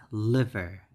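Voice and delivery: LIVER punched on the first syllable, then falling; model pronunciation. Shown as a demonstration. Teacher showing the pronunciation is like that, stressed model. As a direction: say LIVER as a clear LIV-er. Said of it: "and the pronunciation is".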